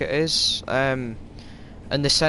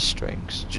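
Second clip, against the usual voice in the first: whispered aside; 6 dB quieter than usual. Real, not acted. Aside to someone off-mic.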